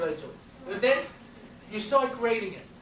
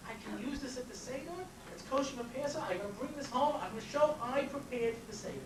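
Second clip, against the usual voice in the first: put-on kids excited; 2 semitones higher, 9 dB quieter than usual. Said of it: "And kids were like".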